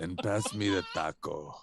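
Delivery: playful put-on Mexican accent; mock Mexican accent. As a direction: join in the joke with a Mexican accent. Joins the joking Mexican impression.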